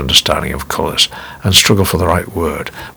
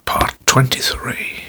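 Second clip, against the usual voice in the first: whispered chapter number; hushed, slow part number; 7 semitones higher, 4 dB quieter, slower than usual. A narrator's reading. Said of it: "whispered chapter number".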